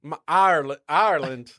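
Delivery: lightly drawled Southern Ireland; Southern accent. Pretend. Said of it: "in Southern accent".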